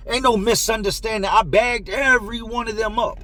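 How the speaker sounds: emphatic mock-angry insistence; indignant retort. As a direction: mimic a dealer shutting down an excuse. Dealer angrily rejects the excuse.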